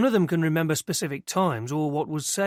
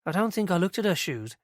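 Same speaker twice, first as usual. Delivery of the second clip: lightly voiced young woman, pitched higher; earnest young witness telling it eagerly; girl's voice; 4 semitones higher than usual. Christie telling Inspector Mariner what she saw, higher and eager.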